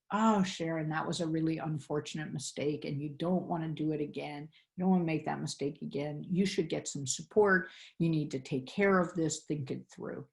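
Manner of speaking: understated heartfelt encouragement; compassionate giraffe voice. Shown as a demonstration. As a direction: reassure yourself gently like a caring friend. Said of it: "talk like a giraffe ... heartfelt, compassionate way".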